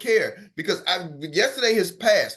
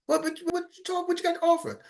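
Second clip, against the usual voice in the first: high-pitched pushy customer voice, softer; impatient customer; 11 semitones higher, 3 dB quieter than usual. Acted. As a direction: press him, a suspicious homeowner. Customer presses the caller.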